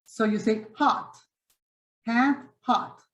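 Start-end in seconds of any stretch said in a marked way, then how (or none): 0.8-1.1 "Hot" with an open, relaxed ah; open-mouth hot. Shown as a demonstration. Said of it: "The second one is "ah". 2.1-3.0 "Hat" with spread lips, then "hot" with open ah; contrasting hat and hot. Shown as a demonstration. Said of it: "Very different".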